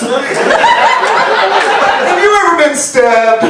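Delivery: drawn-out horrified question, high; a stranger gawking at a Baltimore guy; slow, stunned outsider. Retold or imitated. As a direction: stretch it out in mock horror. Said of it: "they're like".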